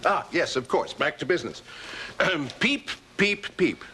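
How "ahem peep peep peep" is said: cheerful peeps. Acted. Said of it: "that has a cheerful sound".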